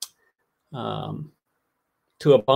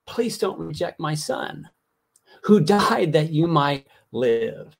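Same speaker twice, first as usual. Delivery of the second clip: softened plea; slower than usual. Retold or imitated. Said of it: "I see God crying out to us".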